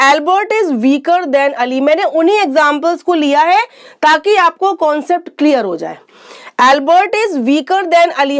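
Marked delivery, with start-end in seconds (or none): 0.1-1.8 each word said slowly and clearly; slow dictation pace; slow example sentence. Shown as a demonstration. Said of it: "first देखिए". 6.7-8.4 slow example. Shown as a demonstration. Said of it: "teacher repeats example".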